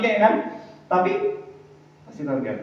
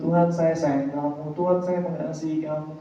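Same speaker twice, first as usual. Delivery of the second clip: empty lip service; 6 dB quieter than usual. Retold or imitated. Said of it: "Hanya sekedar di mulut".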